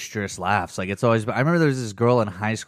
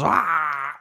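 imitated loud laugh; 5 semitones higher than usual. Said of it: "one of those".

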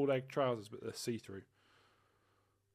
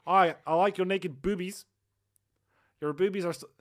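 put-on Australian accent; 6 semitones higher, 9 dB louder than usual. Boyfriend keeps up the silly Australian accent. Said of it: "Yeah, do the accent".

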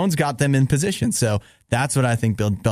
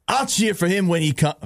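put-on higher-pitched, unconvincing Boston accent; attempted Boston accent; 5 semitones higher than usual. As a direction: have a shaky go at Boston. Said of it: "Does that sound like Boston?".

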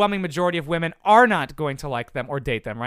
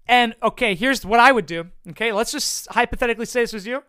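normal talking voice

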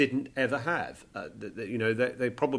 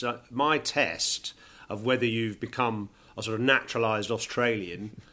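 ordinary delivery

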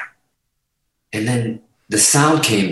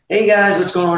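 pleasant booking agent; 7 semitones higher than usual. Retold or imitated. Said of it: "he's a little uncomfortable".

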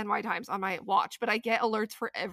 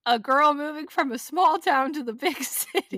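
louder, higher show host voice; dramatic host segue; 5 semitones higher, 6 dB louder than usual. Pretend. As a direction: sell the segue big. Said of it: "How's that for a transition".

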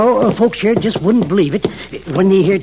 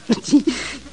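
chuckle; 4 semitones higher, 5 dB quieter than usual. Acted. Old-timer laughs at the name.

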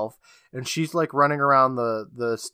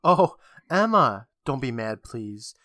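retold sigh; 3 dB louder, slower than usual. Jessie turns to Emma and sighs, mock sighing plea. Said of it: "she turns around and she sighs".

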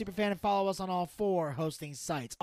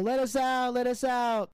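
imitated trapped plea; 5 semitones higher, 3 dB louder than usual. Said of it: "basically doing the whole".

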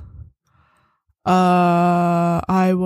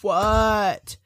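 sleepy, just-woken mumble; groggy voice; much slower than usual. Acted. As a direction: sound half asleep. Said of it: "finally you hear a groggy voice go".

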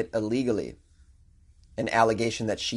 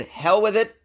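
reckless party shout; 8 semitones higher, 4 dB louder than usual. Retold or imitated. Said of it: "last night I said".

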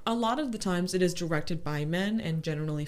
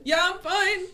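high, loud, strained mock reassurance; about to cry; 12 semitones higher, 6 dB louder than usual. Upset worker answering a friend, mock about to cry. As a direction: crack into a hammed-up wail. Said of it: "then just started crying".

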